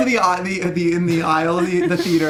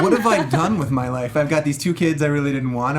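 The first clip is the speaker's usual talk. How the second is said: sad dad; 4 semitones lower than usual. Retold or imitated. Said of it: "sad dad in the aisle going".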